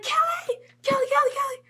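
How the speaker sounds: very high, loud repeated calls; frantic calling out. Retold or imitated. Fan trying to get Kelly's attention, high urgent calling. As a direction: rattle off the name to get noticed.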